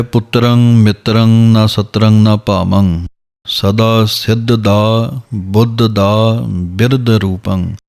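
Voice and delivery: slow, measured chanting of verse; slow Gurbani path recitation; scripture recitation. Shown as a demonstration. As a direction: recite each line slowly and evenly, as in path.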